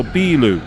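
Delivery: "bilu" with a stretched first syllable; long vowel. Shown as a demonstration. Teacher showing how to say beer, long vowel. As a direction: hold the "bi" of "bilu" before "lu". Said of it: "You extend the B sound".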